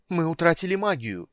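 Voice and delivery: high loud wail; wailing cry. A narrator's reading. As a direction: wail it in panic. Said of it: "завопила из коридора какая-то женщина".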